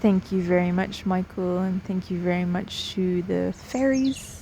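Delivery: unhurried meditation guide with long pauses; guided meditation. Real, not acted. Guide inviting listeners to settle in, guided meditation voice. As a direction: gently lead them in, leaving space between phrases.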